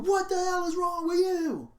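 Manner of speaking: high mock shout at his son; retold yell. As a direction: yell it like an enraged father. Retelling Klansman yelling at son.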